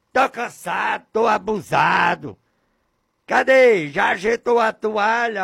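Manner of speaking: high, loud furious shouting; angry yelling husband. Acted. Husband yelling at his wife through the gate, furious. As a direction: bang on the gate and yell at her. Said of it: "gritando com ódio, com raiva, com ira".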